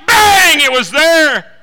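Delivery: shouted high and loud; preacher's shout. Real, not acted. Preacher to congregation, instant result, loud shout. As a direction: bang it out to the room.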